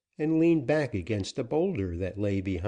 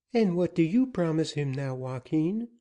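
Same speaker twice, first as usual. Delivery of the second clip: put-on high young woman; 8 semitones higher than usual.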